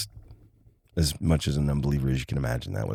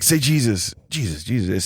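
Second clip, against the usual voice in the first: higher, pushier mock order; insistent command; 4 semitones higher than usual. Dad makes brother keep saying it, insistent command. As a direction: imitate dad demanding it, pitched up. Dad repeats the demand harder.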